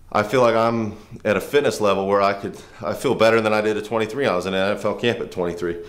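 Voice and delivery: winded after quick drills; out of breath. Real, not acted. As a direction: talk while still catching breath. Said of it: "I'm out of breath doing those little".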